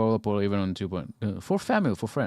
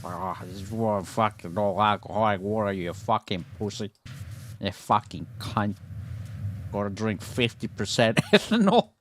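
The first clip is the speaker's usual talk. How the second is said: pushy drinker. Retold or imitated. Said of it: "Alcoholics tend to be super pushy".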